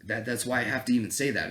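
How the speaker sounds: usual speaking voice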